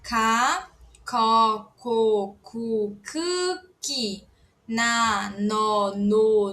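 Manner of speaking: every syllable from "Ka" to "pi" said slowly and set apart; Korean syllable drill. Shown as a demonstration. Teacher drilling the whole syllable chart for students, slow and clear. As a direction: run the syllable chart from "Ka" to "pi", one by one. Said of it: "Agora nós temos com todas elas juntas".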